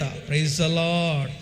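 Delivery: very slow, stretched praise the Lord; drawn-out praise call. Acted. Preacher calling the congregation to praise, very slow and stretched. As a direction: draw every word out as a call to worship.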